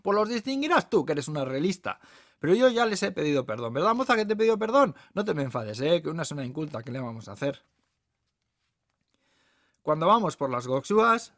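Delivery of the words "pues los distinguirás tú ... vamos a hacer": indignant waitress. Acted. Waitress retorting to the lady, then appeasing the guest. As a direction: snap back pitched up, then settle down.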